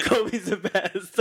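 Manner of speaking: mock broken surrender, very slow; slow defeated surrender. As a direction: give in word by word. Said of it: "by the end of it".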